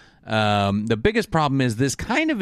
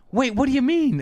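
confused; 14 semitones higher than usual. Retold or imitated. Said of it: "they're like".

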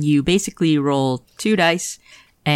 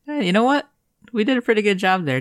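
higher, quick excited praise; 7 semitones higher, faster than usual. Real, not acted. Player praising the party after winning, excited. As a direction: cheer the team on. Celebrating success.

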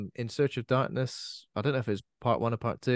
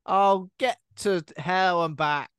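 put-on raised, drawn-out possessed-child taunts; possessed kid; 6 semitones higher, 5 dB louder, much slower than usual. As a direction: play a mock possessed kid, high and rude. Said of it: "See what rude things those possessed kids say".

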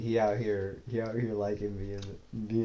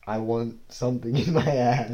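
louder, half-hearted imitation of screaming; put-on yell at ordinary pitch; mock yell; 5 dB louder than usual. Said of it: "you screaming bloody murder".

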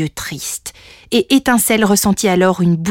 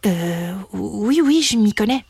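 hedge, then admit it; hesitant little dragon; 4 dB quieter than usual. Acted. Little dragon answers the visiting sprite, hesitant.

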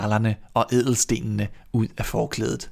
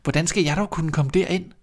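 higher, playing-dumb girl voice; innocent girl; 7 semitones higher than usual. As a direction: feign innocence as little Grete. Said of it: "og sagde derfor".

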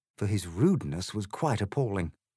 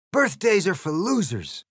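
loud, higher, sneering egg voice; rude Trumpty Dumpty; 11 semitones higher, 6 dB louder than usual. Acted. The egg insults Alice, loud sneering voice. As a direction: sneer it with contempt.

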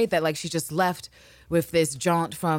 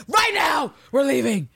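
high, louder mock Anne command; mock shout; 10 semitones higher, 5 dB louder than usual. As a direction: bark the order, higher and louder. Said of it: "even got my shoes on".

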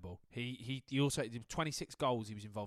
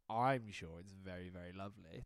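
mocking Hermione Granger; 6 semitones lower, 5 dB quieter than usual. Teasing co-host by mimicking his patronising line. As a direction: primly imitate the know-it-all. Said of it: "Hermione Granger".

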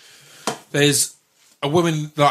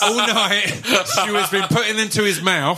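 laughing; 6 semitones higher than usual. Real, not acted. Telling the trick, laughing.

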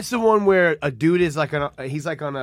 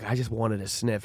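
softer, slow hushed admission; mock sheepish confession; 6 semitones lower, 8 dB quieter than usual. Friend confessing the sniff, quiet and slow. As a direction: mumble it like you're embarrassed. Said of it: "And he's like".

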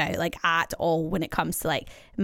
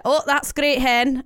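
put-on Scottish gran accent; 5 semitones higher, 3 dB louder, slower than usual. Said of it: "in her Scottish accent".

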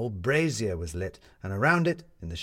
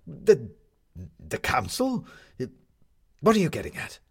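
dumbfounded; 5 semitones higher than usual. A narrator's reading. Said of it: "lost for words".

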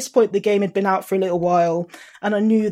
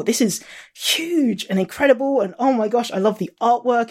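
higher-pitched gushing; retold excitement; 4 semitones higher than usual. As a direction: relive the thrill, gushing about it. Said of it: "and I was so excited".

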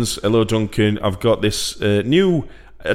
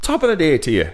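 mock Irish accent, higher pitch; Terry Wogan; 6 semitones higher than usual. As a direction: slip into a hammy Irish greeting. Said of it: "Oh, turn into Terry Wogan".

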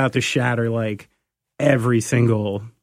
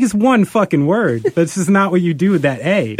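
higher-pitched comic indignation; exasperated retort; 4 semitones higher than usual. Retold or imitated. Host retelling a retort to Delaware locals, exasperated. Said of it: "I'm like".

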